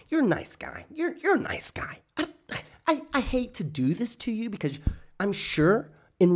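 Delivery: high, falsely sweet mock threat with a whispered bit; sugary fake niceness hiding a lawsuit; mocking Delete Laws. Mocking how the litigant threatens people, sweet and high. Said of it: "That's how Delete Laws talks to you".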